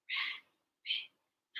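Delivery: "Rabbit" whispered very softly in two parts; whispered syllables. Shown as a demonstration. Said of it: "Whisper with me".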